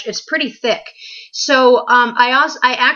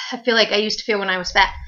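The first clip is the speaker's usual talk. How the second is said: out of breath; faster than usual. Real, not acted. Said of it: "like, out of breath".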